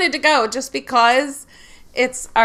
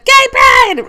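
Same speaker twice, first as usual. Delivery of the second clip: high, loud retold yell; shouted cheer; 8 dB louder than usual. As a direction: belt it out again for the story. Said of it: "I shouted".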